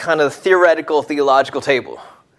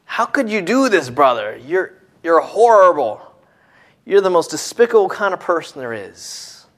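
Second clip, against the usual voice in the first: put-on angry older son; 3 semitones higher than usual. Angry older son confronts brother.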